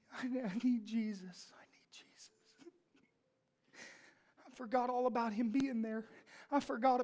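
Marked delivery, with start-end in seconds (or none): 0.1-2.3 retelling his tearful plea quietly; retold crying. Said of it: "he just starts to cry".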